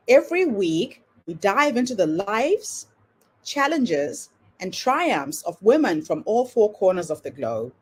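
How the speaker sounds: polished announcer read over music; podcast intro read. Acted. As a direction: welcome listeners like a show host.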